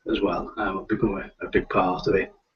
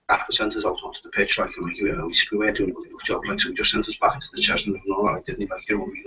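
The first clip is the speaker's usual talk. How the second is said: a Liverpool player telling how the gaffer sent them back out, in Scouse; Scouse footballer; 6 dB quieter, faster than usual. Shown as a demonstration. Showing off his Scouse footballer voice for John, quick and quiet. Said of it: "I can do them in general".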